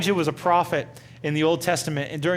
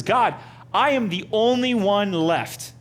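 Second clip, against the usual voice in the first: higher, slow, self-pitying whine; whining Elijah; 4 semitones higher, slower than usual. Retold or imitated. Elijah complaining to God that he's alone, whining slowly. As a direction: play Elijah's pity party, dragging the words out. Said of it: "he's kinda whining to God".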